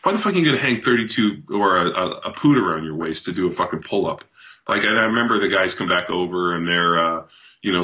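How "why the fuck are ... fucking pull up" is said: pitched up, incredulous, yelling it at the gym guy; mock outrage at a lifter whose buddy pushes him up; exasperated rant. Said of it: "I was like".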